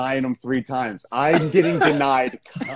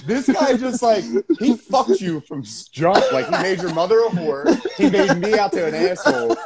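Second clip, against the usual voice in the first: mock aggrieved Joseph; 4 semitones higher than usual. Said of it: "Joseph's sitting there going".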